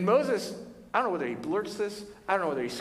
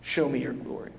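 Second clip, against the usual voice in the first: yearning Moses. Retold or imitated. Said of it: "He's like".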